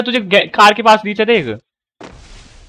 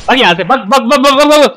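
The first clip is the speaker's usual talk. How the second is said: urgent shouting; 6 semitones higher, 4 dB louder than usual. Real, not acted. Yelling at player to run.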